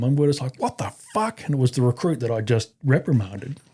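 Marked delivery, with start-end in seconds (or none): 0.6-1.4 high-pitched mock astonishment; incredulous, raised pitch without shouting; retold disbelief. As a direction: react as if stunned by the news. Reacting to shocking report.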